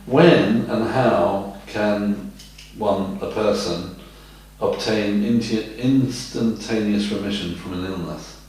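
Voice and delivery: slow down, pausing between phrases; slow, careful repeat. Shown as a demonstration. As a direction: repeat the question slowly and deliberately for someone who missed it. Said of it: "say that again, lovey".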